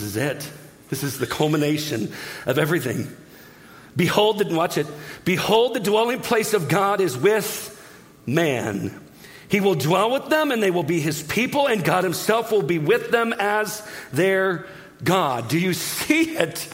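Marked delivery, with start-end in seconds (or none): 4.0-4.5 raised, higher voice of God; loud proclamation. Acted. God announcing from the throne, loud proclamation. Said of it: "got loud". 5.2-15.5 raised pitch, slowing on the key words; loud, excited proclamation. Acted. God speaking from the throne, loud excited proclamation. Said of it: "I think he's excited".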